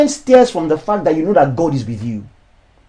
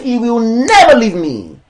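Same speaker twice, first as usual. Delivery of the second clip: congregation confession; 4 semitones higher than usual. Shown as a demonstration. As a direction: declare it as your own promise.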